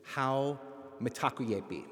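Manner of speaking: How mitakuyepi in careful Lakota sounds; Lakota greeting. Shown as a demonstration. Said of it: "I greet you with Lakota words".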